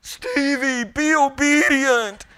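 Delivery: loud, high yell of a fed-up big sister. Retold or imitated. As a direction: call it out across the room, she can't take it anymore. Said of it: "she just yells out".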